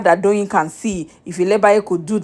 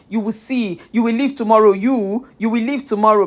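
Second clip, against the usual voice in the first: imitating a condescending housemate, a bit higher; mock talking down: "you will leave tomorrow"; a light, condescending put-down; 3 semitones higher than usual. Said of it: "Very condescending the way she spoke".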